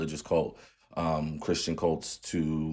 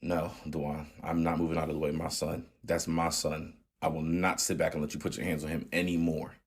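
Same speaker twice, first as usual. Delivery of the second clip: firm calm; 3 dB quieter than usual. Retold or imitated. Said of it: "took a deep breath and was like".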